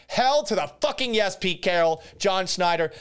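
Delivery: sarcastic whoop of joy; excited cheer. Real, not acted. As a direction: cheer it like a fan who got his wish. Celebrating the running back pick.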